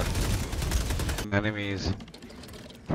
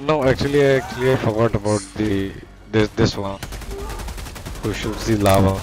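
loud protest; 5 dB louder than usual. Real, not acted. Defending himself loudly to teammate.

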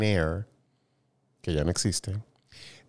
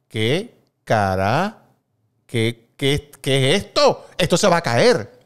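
put-on child's fright; 3 semitones higher, 6 dB louder, slower than usual. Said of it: "yo puse cara de que".

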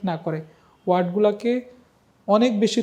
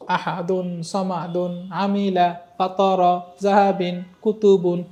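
even, level-toned word-by-word recitation; recitation without spelling; slower than usual. Shown as a demonstration. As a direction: read each word whole on one steady note. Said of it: "আমি দেখাচ্ছি কিভাবে".

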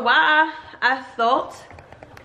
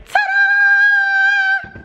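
big high "ta-da" shout; loud showy reveal; mock reveal; 5 dB louder than usual. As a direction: announce it like a grand unveiling. Big reveal of bare wall.

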